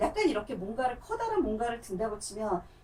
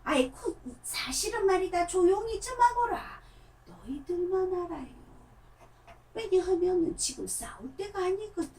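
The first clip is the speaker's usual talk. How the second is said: put-on a lightly raised, hushing old-man puppet voice; 6 semitones higher than usual. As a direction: hush them like a fussy old puppet. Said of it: "귓속말 얘기를 해요".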